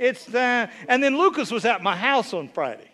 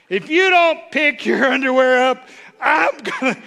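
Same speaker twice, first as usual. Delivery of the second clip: mock nagging spouse; 4 semitones higher, 5 dB louder than usual. Acted married quarrel.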